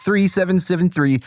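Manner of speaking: put-on, uncertain Scottish accent; badly faked Scottish accent; attempted Scottish accent. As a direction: power through in fake Scottish. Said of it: "so Scottish accent?".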